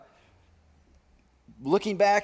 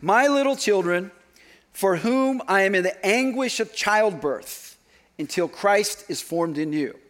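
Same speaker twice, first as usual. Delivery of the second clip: fatherly tone. Shown as a demonstration. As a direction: say it like a father pleading with his children. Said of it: "in a fatherly tone".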